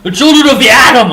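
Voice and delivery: high, loud mock announcement; grand proclamation. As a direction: proclaim it like a cult title.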